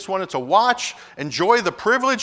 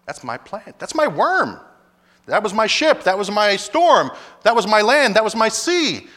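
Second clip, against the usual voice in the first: a stern, building rebuke from God, louder as it goes; God's rebuke swelling to a preacher's full force; God rebuking Jonah; 2 semitones higher, 4 dB louder than usual. Acted. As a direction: lay into Jonah as God, escalating.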